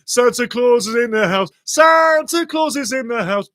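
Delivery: loud, high, thrilled shouting; excited goal celebration. Real, not acted. Commentator still shouting over the Wrexham goal. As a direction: keep riding the goal high.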